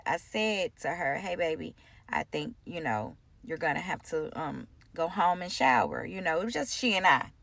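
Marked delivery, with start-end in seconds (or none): 1.2-6.0 softer, kind retelling of her own words; gentle and nice. Retold or imitated. Technician gently telling her client to shower, softer and kind. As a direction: ease the bad news on gently. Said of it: "I was very nice with her".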